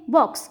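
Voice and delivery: "बॉक्स" with a brief O; quick short vowel. Shown as a demonstration. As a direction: say "बॉक्स" without stretching the vowel. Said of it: "कितनी जल्दी से बोलते हैं हम ये". ("बॉक्स" का जल्दी उच्चार)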